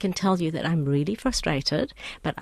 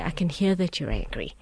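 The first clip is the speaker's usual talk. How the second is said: scripted agent line; 4 dB quieter than usual. Retold or imitated. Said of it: "they say".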